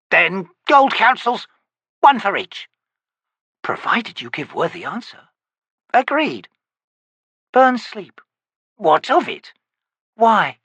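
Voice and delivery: high, slow crone voice; old witch. Acted. Witch grumbling at her visitor, high crone voice. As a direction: croak it like a cranky hag.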